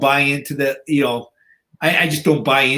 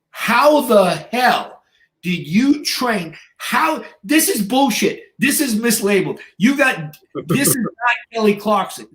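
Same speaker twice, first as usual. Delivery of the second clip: high-pitched, drawn-out protest; imitating an incredulous gym bro; retold outraged disbelief; 6 semitones higher, slower than usual. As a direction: protest it slowly, utterly dumbfounded. Retold guy refuses to believe it.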